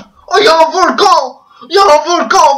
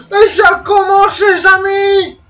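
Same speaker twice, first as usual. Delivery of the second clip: drawn-out, slow hype announcement; excited shout; 4 semitones higher, slower than usual. Real, not acted. To his viewers as the game starts, slow hyped shout. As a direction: stretch it out like a match kickoff.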